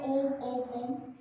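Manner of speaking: ओम repeated briefly, not held; quick unsustained ओम; short Om. Shown as a demonstration. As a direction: say ओम short, three times in a row. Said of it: "कभी भी ऐसा नहीं बोलते हो".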